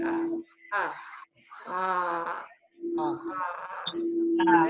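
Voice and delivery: repeated squeezed-throat "ah"; throat Ain sound. Shown as a demonstration. Teacher demonstrates the Ain to learners. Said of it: "squeeze it a bit and say".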